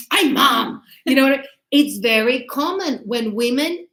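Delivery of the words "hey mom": loud mock protest from a daughter; imitated moody outburst. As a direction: protest loudly, as an offended daughter. Moody daughter snaps at mother.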